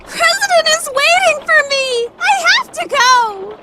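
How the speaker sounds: desperate insistence. Acted. Insisting she will go anyway.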